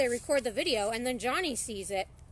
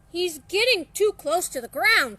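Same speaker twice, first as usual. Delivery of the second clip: louder, urgent warning; alarmed cry; 5 semitones higher, 7 dB louder than usual. Acted. Murray warning Drac about Dennis falling, urgent louder cry. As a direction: raise the alarm before the kid hits. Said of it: "cried Murray".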